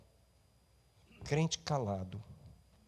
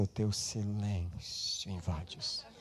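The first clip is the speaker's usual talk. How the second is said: softer, slow wrong version; mock quiet version; 3 semitones lower, 7 dB quieter, slower than usual. Shown as a demonstration. Preacher contrasting silence with praise, hushed. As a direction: say it hushed, mocking the idea. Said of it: "Não diz assim".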